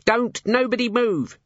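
slow, high shouted command; yelling. A narrator's reading. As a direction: yell it at the room. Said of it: "she yelled".

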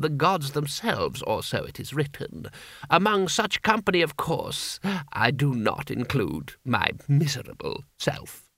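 lightly voiced obsequious courtier; slow, ornate flattery, lightly acted; a touch of courtly grovelling; fawning vizier.

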